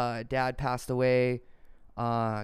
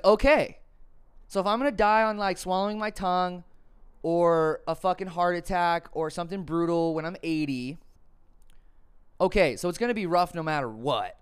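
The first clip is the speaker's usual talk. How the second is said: pumped-up self-talk; 5 semitones higher, 4 dB louder than usual. Retold or imitated. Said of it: "And I was like".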